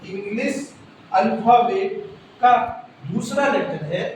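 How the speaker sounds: slow, drawn-out dictation pace. Shown as a demonstration. Teacher dictating the B rule to pupils, slow and deliberate. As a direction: read the rule slowly so they can write it.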